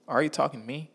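high incredulous question; disbelieving. Retold or imitated. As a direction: ask it in disbelief. Couldn't fathom what she said.

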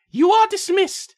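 builds from cold command to high shout; angry princess. Acted. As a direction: order the guards out, exploding. Princess dismisses the guards.

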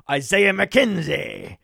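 slow, drawn-out mock Scottish; badly faked Scottish burr, savouring the name; attempted Scottish accent. Host naming a player, in an attempted Scottish accent. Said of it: "I try to do Scottish".

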